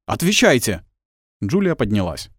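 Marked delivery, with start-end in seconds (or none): 0.1-0.8 angry command. A narrator's reading. Priest demands answer angrily.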